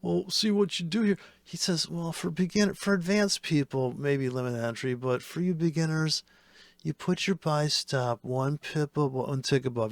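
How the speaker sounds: lightly voiced patronizing trading guru; condescending guru. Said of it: "he talks down to you like you're fucking eight years old".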